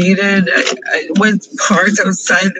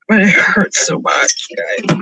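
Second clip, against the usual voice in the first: crying. Real, not acted. Vlogger breaking down over lost friend.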